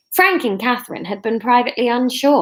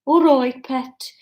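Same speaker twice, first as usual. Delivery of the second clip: Brummie warm-up phrase; attempted Birmingham accent; 4 semitones higher, slower than usual. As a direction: find the Brummie accent with a greeting.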